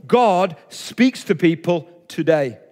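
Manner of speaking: slow, weighty "God speaks to people today"; slow emphatic statement. Shown as a demonstration. Preacher stating the key principle to the church, slow and weighty. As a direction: lay down the principle word by word. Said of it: "it begins with this principle".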